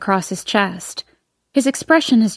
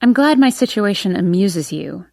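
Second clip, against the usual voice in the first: flat. Acted. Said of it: "I say flatly".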